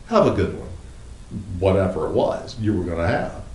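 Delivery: bright polite send-off. Retold or imitated. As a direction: say it nicely, a courteous goodbye. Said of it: "with a fair amount of politeness".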